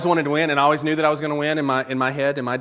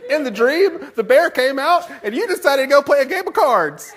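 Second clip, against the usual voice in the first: very high, loud indignant accusation; hammed-up shrieky telling-off; mad wife; 12 semitones higher, 7 dB louder than usual. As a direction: imitate a wife scolding, voice pushed way up. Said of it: "she'll be mad at me".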